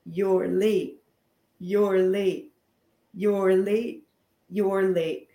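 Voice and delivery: sassy, repeated with attitude. Shown as a demonstration. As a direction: toss it off with sass. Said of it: "give a little attitude and say".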